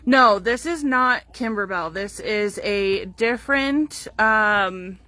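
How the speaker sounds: talking through hiccups; speaking with the hiccups. Real, not acted. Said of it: "excuse me, I have the hiccups".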